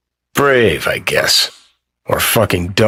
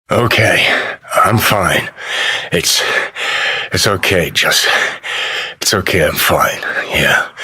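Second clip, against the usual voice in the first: shaken reassurance; 4 semitones lower than usual. Acted. Shaken, insists he is fine.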